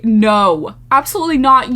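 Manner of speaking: loud firm no way; loud refusal. Real, not acted. Reacting to the colon cleanse, loud firm refusal. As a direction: flatly reject it, loud.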